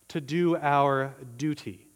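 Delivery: crisp, accented "duty" with a clear T; emphasized duty. Real, not acted. Preacher making duty sound biblical, "duty" emphasized with a crisp T. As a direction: set "duty" apart, T fully sounded, as if biblical. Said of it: "I emphasize duty like that".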